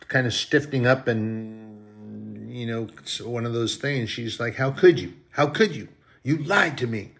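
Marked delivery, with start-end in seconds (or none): 4.6-7.1 higher-pitched mock reproach; imitating a wounded wife; acted hurt accusation. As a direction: play a betrayed wife confronting her husband. Wife confronts husband, acted.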